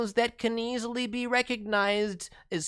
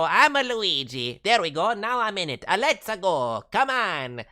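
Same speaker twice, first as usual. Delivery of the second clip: lightly voiced Luigi; 5 dB louder than usual. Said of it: "they might go".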